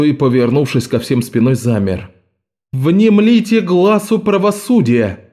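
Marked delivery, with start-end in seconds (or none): 2.7-5.2 high, slow, cold proclamation; stern judge announcing. A narrator's reading. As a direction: announce justice imperiously. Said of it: "объявила женщина".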